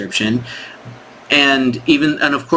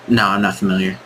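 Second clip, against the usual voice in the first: curt prospect; 4 semitones lower than usual. Pretend. Prospect picking up the call, low and curt. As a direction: answer like a busy prospect. Prospect answers in role-play.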